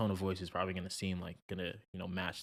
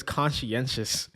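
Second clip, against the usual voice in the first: higher, louder, drawn-out single word; Jordan Peterson; 5 semitones higher, 6 dB louder, much slower than usual. Retold or imitated. Quoting his favorite word to the co-host, playful impression. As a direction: stretch the word out in playful mimicry. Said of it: "as Jordan Peterson would say".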